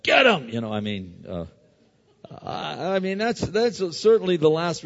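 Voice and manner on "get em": higher, mock eager shout; a hint of a hothead egging on; lightly voiced tough guy; gung-ho enforcer. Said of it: "I'm not a big guy like".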